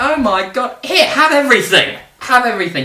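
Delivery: put-on a terrified Spanish sailor surrendering, Spanish accent; mock Spanish accent. Spanish crew surrendering their treasure to Drake, mock Spanish accent. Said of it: "in a Spanish accent".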